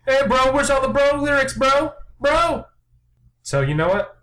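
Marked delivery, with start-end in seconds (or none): 0.1-2.6 frat bro. Retold or imitated. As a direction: yell it like a dumb frat guy. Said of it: "We're like".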